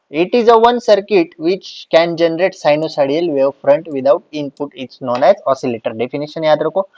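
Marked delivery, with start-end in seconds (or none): 0.1-5.9 slow, deliberate note-dictation voice; dictating notes to the class. Acted. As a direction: spell it out slowly so students can write. Dictating a definition slowly.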